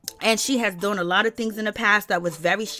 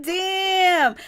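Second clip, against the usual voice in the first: shouted damn; 8 semitones higher than usual. Real, not acted. Reacting to Wendy's insult with a shout. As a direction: blurt it out in shock.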